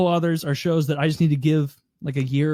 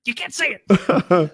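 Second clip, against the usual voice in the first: slow put-on character voice; 4 semitones higher, 3 dB louder, slower than usual. Friend repeats the sitcom line, slow put-on voice. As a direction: drag it out in a mock voice.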